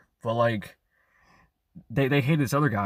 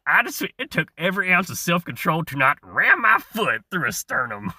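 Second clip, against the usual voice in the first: harsh father; 5 semitones higher, 3 dB louder than usual. Retold or imitated. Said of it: "anything that harsh or cutting. My father goes".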